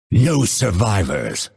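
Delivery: grim vow at ordinary pitch; restrained take of a battle line; grim battle order. Acted. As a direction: pronounce the sentence on the enemy. Battle cry, first take.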